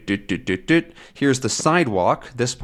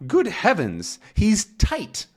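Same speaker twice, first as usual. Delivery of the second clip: higher, dismayed exclaim; shocked Tintin; 9 semitones higher than usual. Acted. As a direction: gasp at the drunk dog. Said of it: "now Tintin says".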